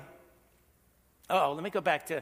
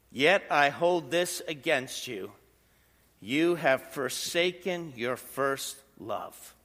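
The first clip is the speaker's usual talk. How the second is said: scripture reading. Acted. Reading scripture verse quietly.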